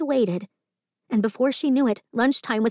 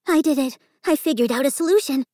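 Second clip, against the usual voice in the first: triumphant thought; 6 semitones higher, 3 dB louder than usual. A narrator's reading. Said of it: "Margot thought".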